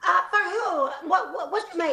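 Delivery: stammering mock Australian; Australian accent. Student asking teacher about the news, in an Australian accent. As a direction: blurt it as a faked Aussie. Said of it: "let's say they're all Australian".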